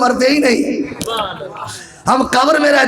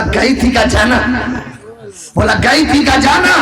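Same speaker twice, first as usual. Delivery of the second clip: rising question; 2 semitones higher than usual. Acted. Repetition building in pitch.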